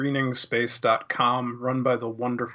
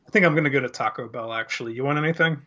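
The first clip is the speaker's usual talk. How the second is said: ordinary talk, nothing marked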